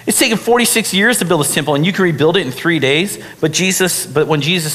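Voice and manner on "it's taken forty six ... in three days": fast, high disbelieving protest; incredulous exclaim. Retold or imitated. Leaders scoffing at Jesus about rebuilding the temple, incredulous. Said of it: "they exclaimed".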